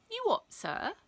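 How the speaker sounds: high-pitched pupil's disbelief; put-on astonished question; feigned incredulity. A narrator's reading. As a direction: act baffled, pitched right up. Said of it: "best look of incredulity".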